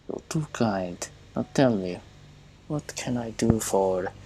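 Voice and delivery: lightly put-on Russian accent; polite, with a touch of Russian. Machinist offers his neighbor help, light Russian accent. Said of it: "There's a hint of Russian accent".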